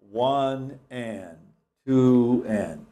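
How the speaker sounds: rhythmic count, one and two and; counting the beat. Shown as a demonstration. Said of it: "Think of the subdivided beat".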